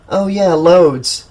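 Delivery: slow, dry sarcastic drawl. Acted. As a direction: drag it out, clearly not meaning it. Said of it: "Rennie said sarcastically".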